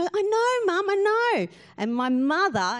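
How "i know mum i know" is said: high-pitched mock teen whine at Mum; told-off teenage sister. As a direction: imitate a scolded teenager talking back. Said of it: "Mum would tell her off and she'd go".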